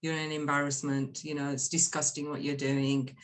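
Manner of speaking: low, even disapproval; calm rejection. Retold or imitated. Horrified mother banishing her daughter, in a calm voice. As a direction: disown them calmly, without raising the voice. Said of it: "she's in a calm voice".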